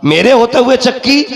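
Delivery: high, rising incredulous repeat; ringing acted disbelief, rising at the end; incredulous question. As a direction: throw it out as an astonished question.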